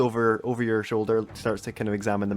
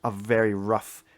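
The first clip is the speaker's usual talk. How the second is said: game master's scene setting. A narrator's reading. Game master describing an ambush in misty streets, suspenseful narration. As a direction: let the menace build with long pauses.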